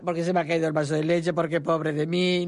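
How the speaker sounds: mother mimicking her crying son, mock whine; mock whining child. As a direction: whine it like a sulky boy. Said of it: "ya está llorando".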